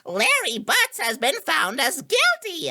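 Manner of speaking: mock judge verdict.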